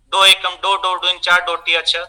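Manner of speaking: lightly voiced pupil rattling off a times table; pupil reciting tables. Pupil answering the inspector in maths class, odd rote recital. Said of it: "इसी तरीके का अजीब सा उच्चारण".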